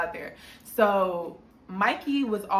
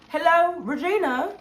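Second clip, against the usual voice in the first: a hint of a guy's greeting, louder; voice through vent; 8 semitones higher, 4 dB louder than usual. Cam greeting Regina through the vent, lightly voiced. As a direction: call out a lightly voiced hello.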